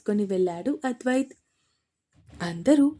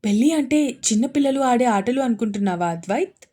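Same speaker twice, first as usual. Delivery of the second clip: angry; 4 dB louder than usual. Acted. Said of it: "కోపంగా వచ్చింది".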